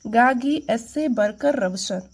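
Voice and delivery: the whole mnemonic said quickly in one breath; fast run-through. Shown as a demonstration. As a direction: rattle it off quickly, no pauses. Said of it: "fast कैसे बोलेंगे?". (तेज़ी से एक साँस में)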